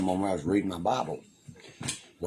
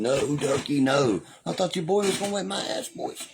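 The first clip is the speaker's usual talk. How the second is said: panicked coworkers; 10 semitones higher than usual. Retold or imitated. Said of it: "here they all come running".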